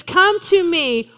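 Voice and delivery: drawn-out, tender scripture reading; preacher rereading the verse slowly; slow inviting reading. Retold or imitated. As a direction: stretch each word, inviting. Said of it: "And so he says".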